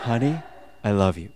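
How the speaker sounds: soft, low endearment after a laugh; second romantic attempt. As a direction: play at tender romance. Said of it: "Let me try it again".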